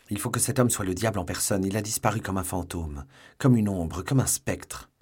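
a touch of exasperated anger; angry outburst. Acted. D'Artagnan tells the musketeers he lost the man, mild anger. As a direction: vent it, still sweating with rage. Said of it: "s'écria celui-ci".

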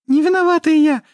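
very high, loud frightened squeal; panicked mermaid squeal. Acted. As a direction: shriek out the denial. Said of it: "завизжала русалка".

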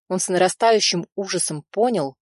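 ordinary delivery, nothing marked

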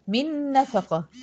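من نفقة slow, n of من merged fully into the next n with a long nasal hum; full nasal merge. Shown as a demonstration. Teacher demonstrates the nasal merge in من نفقة, slowly. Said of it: "إدغام كامل بغنة".

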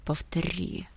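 a stranger's voice, hard and cold. A narrator's reading. Boy to a rival, menacing quiet threat. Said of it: "сказал он чужим голосом, злым и твёрдым".

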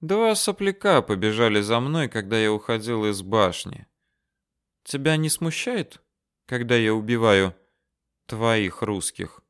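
hint of a sly officer needling the corporal; a lightly voiced Ali taunting the corporal.

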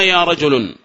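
"رجل" given an -un ending; wrong tanween. Shown as a demonstration. Teacher warns against the form, "رجل" said rajulun. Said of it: "فلا تقل".

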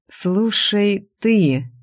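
hint of a brash market trader; market-woman tone. Furious blonde turns on the secretary, lightly market-woman brash. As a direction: start in on her like a market woman. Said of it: "начала она тоном базарной торговки".

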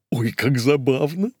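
high, bouncy and gleeful; delighted squeal. Acted. Кока bouncing on the sofa, high delighted squeal. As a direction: squeal like a giddy lady. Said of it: "запрыгала на диване Кока".

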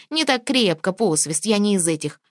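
lightly camp, affected protest; a hint of prissy indignation; mincing voice. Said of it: "возмутился жеманным голосом".

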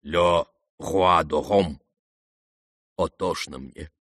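low, soft and slow mournful sigh; broken old man sinking; despairing. A narrator's reading. The general laments to Kolya, low and soft.

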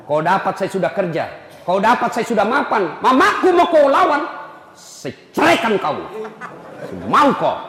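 a husband half-acting a rebuke to his wife; mock angry husband. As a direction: scold her like a fed-up husband, voice lifting toward the threat. Husband scolding wife in story.

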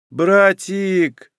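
high, drawn-out wheedling call. A narrator's reading. Рейка wants something from her brother, drawling. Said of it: "протянула Рейка".

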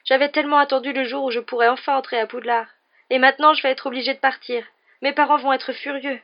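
high, loud, upset complaint; lamenting Ginny. A narrator's reading. Ginny dreads having to leave Poudlard, lamenting. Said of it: "se lamenta Ginny".

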